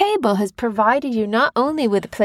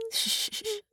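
whispered shh; shushing; 12 semitones higher, 13 dB quieter than usual. Shown as a demonstration. Parent shushing child to think, whispered shh. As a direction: hush the room. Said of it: "Be quiet".

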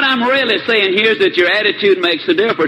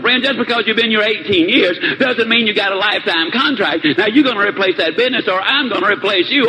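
higher, heated outburst climbing to a peak on "You blow it"; acted fury, raised pitch but not shouted; boss hitting the ceiling; 4 semitones higher than usual. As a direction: tear into the sales manager. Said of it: "He literally hit the ceiling".

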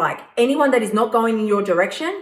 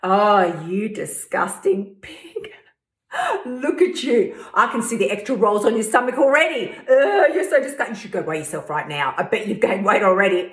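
disgusted critic. Retold or imitated. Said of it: "the minute you finish them".

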